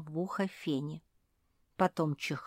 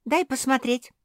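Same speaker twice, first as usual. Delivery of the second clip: high, loud eager shout; 8 semitones higher, 8 dB louder than usual. A narrator's reading. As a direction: demand to look. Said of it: "закричала Жози".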